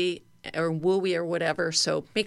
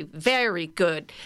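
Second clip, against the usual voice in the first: praising; slower than usual. Shown as a demonstration. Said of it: "we're gonna say".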